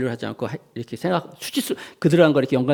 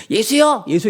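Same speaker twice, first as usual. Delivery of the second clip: high, raised call to Jesus; ordinary call; 6 semitones higher, 6 dB louder, slower than usual. Shown as a demonstration. Preacher showing a call that is not enough, calling out. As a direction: call out Jesus's name, only moderately forceful. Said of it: "이 정도가 아니라".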